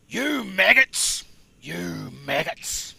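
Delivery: slow, drawn-out, accidental Aussie; Australian-sounding Soldier. Retold or imitated. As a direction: stretch it like an Aussie. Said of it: "Sounds Australian".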